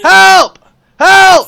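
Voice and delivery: loud high yell; being tickled. Real, not acted. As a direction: cry for help, squirming.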